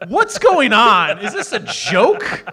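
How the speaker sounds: loud, slow, laughing mock question; amused disbelief. Host laughing while quoting the news anchors. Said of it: "even they're like".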